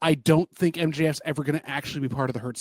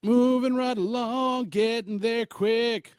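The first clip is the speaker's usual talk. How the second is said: announcer voice; 7 semitones higher, much slower than usual. Acted. Answers with a segue bit.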